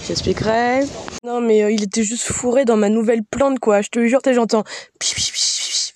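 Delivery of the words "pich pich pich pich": imitated squeak. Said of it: "je l'ai mal fait".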